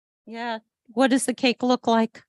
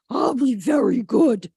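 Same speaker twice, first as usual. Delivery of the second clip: loud, keen puppy promise; eager promise; 5 dB louder than usual. A narrator's reading. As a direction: swear you'll be good, loudly. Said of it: "Do you think George will be very good".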